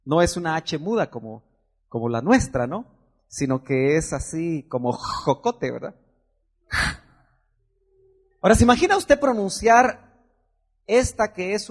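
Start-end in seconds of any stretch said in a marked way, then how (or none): 4.9-5.7 JOCOTE with a throaty, drawn-out J at the start; guttural J sound. Shown as a demonstration. Preacher showing how the Hebrew H sounds, guttural J. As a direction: rasp the opening J of "jocote" from the throat. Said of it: "se pronuncia como J ... son guturales".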